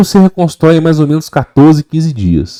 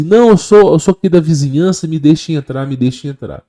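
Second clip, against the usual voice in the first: demon posing as neighbour; 4 semitones higher than usual. Retold or imitated. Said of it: "eles vão chegar até você e vão falar assim".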